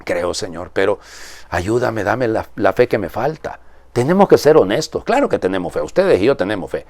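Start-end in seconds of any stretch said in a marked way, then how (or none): 0.0-3.6 soft, heartfelt prayer to God; quiet prayer. Real, not acted. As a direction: pray it softly as his own. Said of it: "esa va a ser mi oración".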